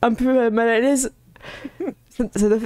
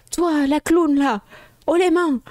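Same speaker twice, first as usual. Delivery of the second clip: guard shouting; 7 semitones higher, slower than usual. Acted.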